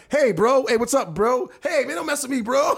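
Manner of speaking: hammed-up frat guy at bar; frat bro. Imitating white bar guy.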